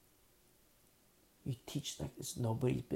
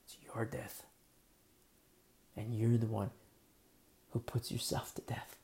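whispered, grave and soft; solemn whisper; 3 semitones lower, 4 dB quieter than usual. Real, not acted. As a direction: drop to a whisper to drive it home.

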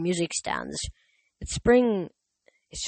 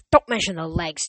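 snapped. Acted. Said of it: "Tommy snapped".

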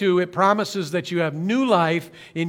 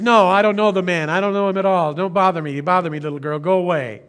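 mildly voiced, louder, brushing her off; angry denial; 3 dB louder, faster than usual. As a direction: push her away with a mild mock anger. Peter denying Jesus.

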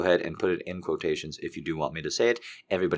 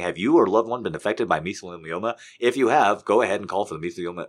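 ad-read voice speeding up at the end; mock lawyer commercial read; lawyer ad impression; 5 dB louder than usual. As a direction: rush the ad disclaimer. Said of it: "It does sound like I'm saying".

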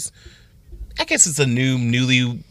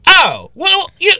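high startled squeak; flustered high exclamation; caught off guard; 6 dB louder, slower than usual. Retold or imitated. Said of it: "and I go".

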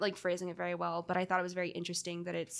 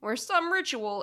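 "some ritual" with "some" pushed up and louder; stress on some; 4 semitones higher, 4 dB louder than usual. Shown as a demonstration. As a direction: put weight on "some" in "some ritual". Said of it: "It's not just ritual or a ritual".

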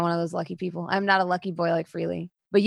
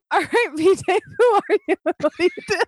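high, loud, bewildered mock questioning; confused brain voice; 9 semitones higher, 5 dB louder than usual. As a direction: play your own baffled brain. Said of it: "now my brain was like".

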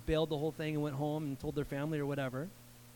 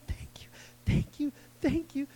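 breathless whispered thank-yous; overcome with gratitude; 7 semitones higher than usual. Retold or imitated. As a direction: whisper it, overwhelmed at his feet. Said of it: "He's overcome with gratitude".

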